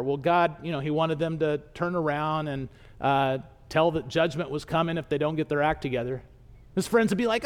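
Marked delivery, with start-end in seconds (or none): 0.0-6.2 low, hesitant account with fillers; reluctant explaining. Acted. Jonah explains to friends why he went, reluctantly. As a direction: hedge your way through it, pitch down.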